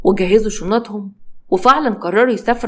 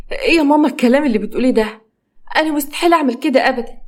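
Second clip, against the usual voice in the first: indignant daughter; 5 semitones higher, faster than usual. Acted. Daughter denies mother's accusation.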